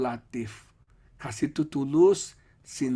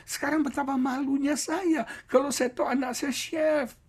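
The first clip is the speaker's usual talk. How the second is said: ashamed father; 10 semitones higher than usual. Retold or imitated.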